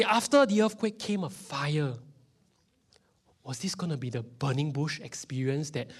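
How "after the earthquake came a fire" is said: raised, loud proclamation; high, emphatic Bible reading; dramatic scripture reading. Acted. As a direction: announce the verse with big force.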